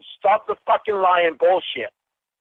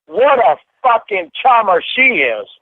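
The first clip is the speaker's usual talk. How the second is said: sarcastic jab; 6 dB louder than usual. Real, not acted. Bitter sarcasm, raised voice.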